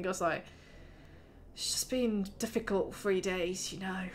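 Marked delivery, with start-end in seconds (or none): 1.5-4.0 hushed confiding. Acted. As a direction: say it low so the neighbours can't hear. NPC confides, others may listen.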